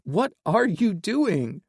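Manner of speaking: high startled squeak. A narrator's reading. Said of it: "Finley squeaked".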